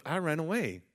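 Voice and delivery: high, loud imitated Jamaican accent. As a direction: mimic a worked-up sister with a Jamaican accent. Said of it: "She had a Jamaican accent".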